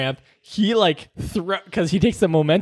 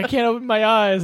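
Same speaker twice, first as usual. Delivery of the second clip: higher-pitched imitation of a panicking friend; mock-distressed, raised pitch; mock freak-out; 6 semitones higher than usual. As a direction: retell it as mild, helpless panic. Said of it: "he's, like, freaking out".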